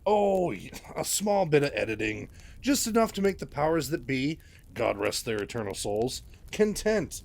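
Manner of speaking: a slick, self-pleased mentor gushing over his star; oily Handy Anderson. Acted. Handy Anderson voiced in story.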